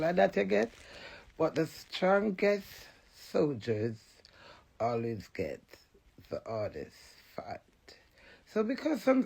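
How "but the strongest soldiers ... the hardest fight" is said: slow, fading to a whisper; dramatic fade to whisper. Real, not acted. Telling viewers the strongest soldiers suffer, whispered. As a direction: let each word sink, ending in a whisper. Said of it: "dramatic slow fading line".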